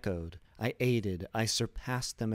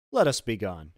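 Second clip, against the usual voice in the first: cold mocking echo; 6 dB louder than usual. Montresor mocks Fortunato's plea.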